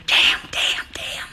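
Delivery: breathy whispered curses; whispering. A narrator's reading. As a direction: whisper them under the breath. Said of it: "he kept whispering".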